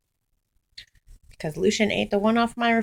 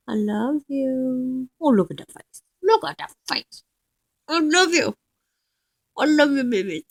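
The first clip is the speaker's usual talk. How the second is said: tender cooing; 4 semitones higher than usual. Real, not acted. Cooing love at the dog.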